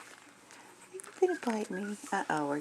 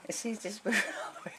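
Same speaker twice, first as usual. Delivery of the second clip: whispered laugh; 3 dB quieter, faster than usual. Real, not acted.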